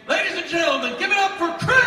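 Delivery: big, high announcer call over the crowd; announcer shout. Acted. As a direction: hype the crowd like a ring announcer. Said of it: "yelling up on your screaming loud".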